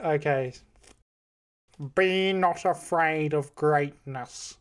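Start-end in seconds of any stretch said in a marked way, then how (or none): 2.0-4.5 slow, drawn-out Shakespearean delivery; a light take on a grave actor, slowly; Alan Rickman impression. Guessing game host reciting Shakespeare, slow grave actor voice. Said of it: "this is the first impression".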